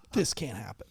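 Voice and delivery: a hint of a stern sergeant laying down the law; sergeant scolding. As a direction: bark it like a boss shutting it down. Sergeant scolding in retold story.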